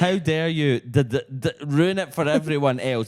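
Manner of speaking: a touch of a furious stranger; mock rant. Reading a ranting man to the co-host, mock angry. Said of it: "trumpet fight lyrics".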